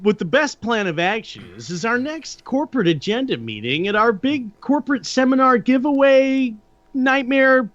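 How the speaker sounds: lightly put-on corporate reading voice; a hint of boardroom presenter, with swooping intonation; corporate spokesperson. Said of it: "I started doing the corporate".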